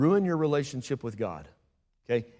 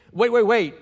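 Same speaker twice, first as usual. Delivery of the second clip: louder, higher interjection; urgent halting call; 6 semitones higher, 6 dB louder than usual. A narrator's reading. Preacher voices bystanders at the cross, calling out urgently. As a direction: call out to stop them.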